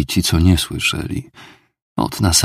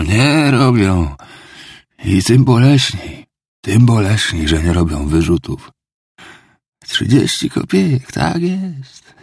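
higher, pleading, tearful confession; anguished drunk father; 5 semitones higher than usual. Acted. Drunk father confesses to Raskolnikov, pleading and anguished. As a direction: beg for pity while damning himself.

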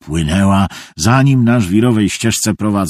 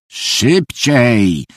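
mildly roared command; put-on German's bark, only a little raised; roared order; 3 semitones higher than usual. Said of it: "ryknął Niemiec". (umiarkowany ryk rozkazu)

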